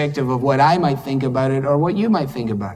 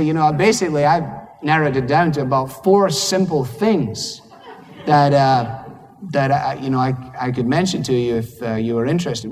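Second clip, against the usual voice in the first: casual offer. Retold or imitated. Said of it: "I'd say".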